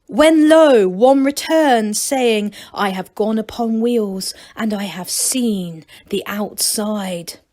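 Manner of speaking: solemn, slow biblical recital; mock scripture reading. Narrator reciting the gnomes' holy book, solemn and slow. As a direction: intone it like holy writ.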